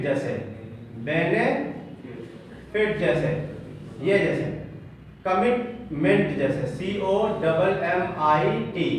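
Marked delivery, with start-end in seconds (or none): 1.0-3.0 बेनिफिट slowly split into separate beats; slow, soft segmented बेनिफिट; syllable demo. Shown as a demonstration. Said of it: "दो बार". 5.2-6.4 कमिटमेंट slowly broken into parts; slow teaching split of कमिटमेंट; syllable demo. Shown as a demonstration. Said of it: "दो बार".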